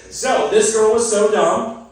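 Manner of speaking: drawn out, high and loud; slow emphatic setup. Acted. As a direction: stretch it out like a catchphrase. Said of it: "I need you guys to say".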